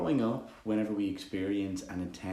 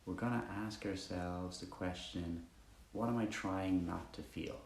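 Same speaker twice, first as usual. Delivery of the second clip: calm meditation guide with long pauses; guided meditation; 9 dB quieter than usual. Acted. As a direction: ease listeners quietly into the breath, leaving space between phrases.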